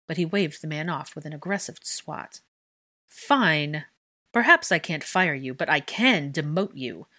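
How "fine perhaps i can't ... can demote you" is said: curt and loud, biting each word; brusque. Acted. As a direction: cut her off sharply, louder. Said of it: "Tiberius said brusquely".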